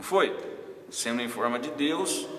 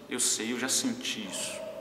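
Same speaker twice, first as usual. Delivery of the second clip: softer, lower, slow reply; understanding Jesus; 4 semitones lower, 5 dB quieter than usual. Acted. Jesus answers the struggling believer, quietly understanding. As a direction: answer gently, slowly, a little hushed. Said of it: "Aí Jesus fala pra você assim".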